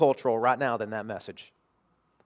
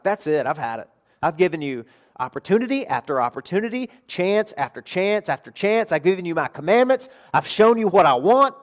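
mildly exasperated, rising louder through the list; fed-up God; 3 semitones higher, 4 dB louder than usual. Acted. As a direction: pile up the grievances, emphatic and at wit's end. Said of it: "expect God to drop the hammer".

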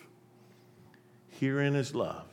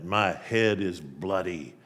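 poem recital; 6 semitones lower, slower than usual. Acted. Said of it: "It's got that line in it".

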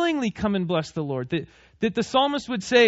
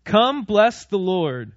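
slow reading; much slower than usual. Shown as a demonstration. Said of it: "look down at verse one".

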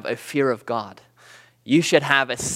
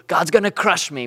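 gasp, then mildly mock fright; slavish fear; 3 semitones higher than usual. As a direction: imitate cowering dread with a sharp gasp first. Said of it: "not the slavish fear".

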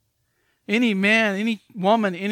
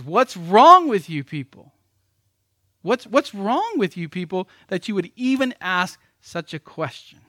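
mock the preacher scolding his audience; upset, stern rebuke; 2 semitones higher, 6 dB louder than usual. Sproul rebuking the conference audience, stern and upset. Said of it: "Doctor Sproul gets very upset and he looks very sternly".

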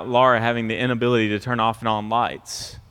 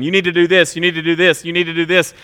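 nagging, a bit louder and higher, repeating; berating kids; 4 semitones higher, 4 dB louder, faster than usual. Retold or imitated. Parent berating the kids, loud nagging. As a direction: hammer the same order at them. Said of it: "to be berating them".

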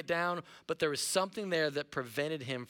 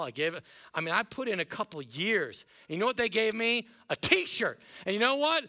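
higher, building from hurt to exasperated rant; mock frustrated churchgoer; 3 semitones higher than usual. Burnt-out churchgoer complaining to Chris, building to mock exasperation. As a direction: vent like a burnt-out volunteer fed up with t-shirts. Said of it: "you're like".

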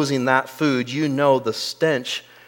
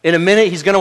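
ordinary delivery

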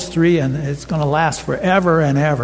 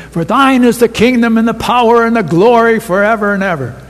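louder, brisk liturgical recitation; recited doxology; 5 semitones higher, 5 dB louder, faster than usual. Retold or imitated. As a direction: chant it like the end of a prayer. Quoting the closing doxology.

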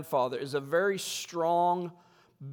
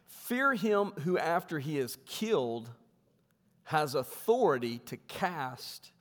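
slow, solemn Bible reading; scripture reading. Acted. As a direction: read the Lord's words with weight. Pastor reads scripture aloud.

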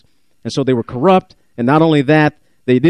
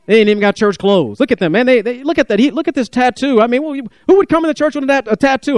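snooty churchgoer; 5 semitones higher than usual. Retold or imitated. Mimics judgmental churchgoers.

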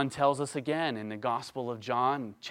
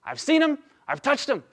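loud, high, insistent testimony; loud emphatic witness; 12 semitones higher, 8 dB louder than usual. Retold or imitated. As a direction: hammer each phrase home with conviction. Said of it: "He is so emphatic".

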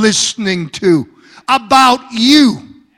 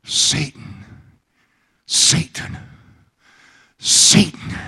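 softer, breathy whisper of the name; 6 semitones lower, 4 dB quieter than usual. Acted. Preacher setting up Satan's voice, hushed whisper. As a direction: breathe it out like a secret.

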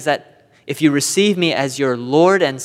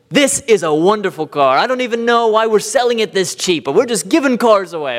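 a light imitation of a salesman's hard sell; pushy salesman pitch; 4 semitones higher than usual. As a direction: sell the lemon with a bit of pizzazz. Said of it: "with all the pizzazz and finesse".

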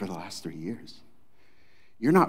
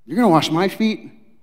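higher, louder, slow disbelief; incredulous Peter; 8 semitones higher, 7 dB louder than usual. Acted. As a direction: let Peter's shock spill out slowly. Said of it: "Better translated is like".

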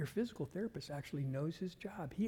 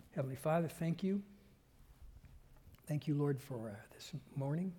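heartfelt prayer to God, rising in places; earnest prayer. Acted. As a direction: pray earnestly over the congregation. Pastor leads closing prayer.

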